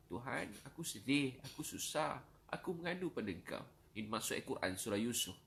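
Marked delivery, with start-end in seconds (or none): 0.1-3.6 sorrowful plea. Acted. Preacher voicing the verse's meaning as prayer, sorrowful plea.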